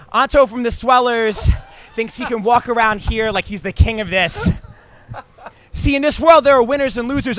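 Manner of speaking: loud, high pro wrestler trash talk; wrestling promo. Shown as a demonstration. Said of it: "a promo on stage / standard stage voice".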